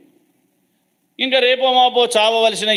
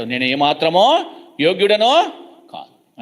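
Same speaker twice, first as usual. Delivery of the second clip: weeping. Retold or imitated. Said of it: "అని ఏడుస్తూ దుఃఖపడుతూ".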